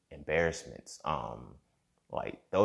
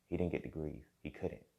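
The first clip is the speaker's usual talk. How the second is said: softer, sinking repeat of "He didn't get to grieve."; quieter repeat; 7 dB quieter than usual. Real, not acted.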